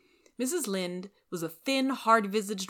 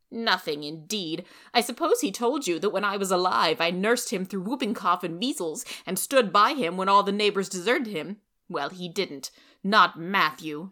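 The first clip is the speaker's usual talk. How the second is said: loud, bitter scorn; vindictive; 6 dB louder than usual. Acted. Rachel bitterly scorning Matthew to Anne, loud. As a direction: spit out the grudge. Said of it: "she added vindictively".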